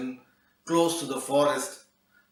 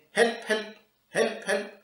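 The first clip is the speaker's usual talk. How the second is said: squawking parrot; 8 semitones higher than usual. Acted. Parrot won't come down, high squawky cry. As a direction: squawk it like a bird.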